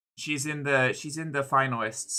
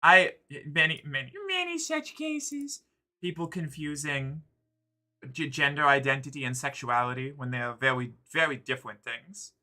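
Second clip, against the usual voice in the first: uwu voice. Real, not acted. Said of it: "serious conversation with the uwu voice".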